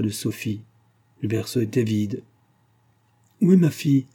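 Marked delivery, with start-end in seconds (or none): 3.4-4.1 sharp, raised, loud question; ill-tempered demand. A narrator's reading. Mother finding the cradle empty, sharply asks the nanny. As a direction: snap the question out, irritated. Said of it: "demanda-t-elle d'un ton d'humeur".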